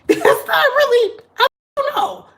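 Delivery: high, squeaky laughter through the words; giggling through disbelief; laughing. Real, not acted. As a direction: laugh it out helplessly. Laughing at the memory.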